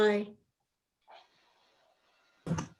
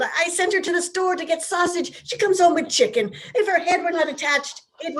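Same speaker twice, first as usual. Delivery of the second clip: mock angry rant; 5 semitones higher than usual. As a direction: rant to the police to cover for her. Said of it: "he began to shout".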